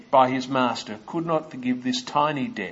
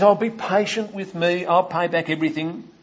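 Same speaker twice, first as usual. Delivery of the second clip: higher, urgent begging to the master; desperate plea; 5 semitones higher than usual. Acted. Servant on his knees begging the master, desperate plea. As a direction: plead for your life on your knees.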